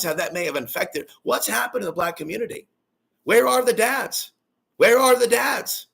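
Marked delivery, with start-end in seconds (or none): 3.2-5.9 high, drawn-out rhetorical cry; impassioned demand. Real, not acted. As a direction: call it out high and slow to the crowd. Preaching challenge, repeated as a cry.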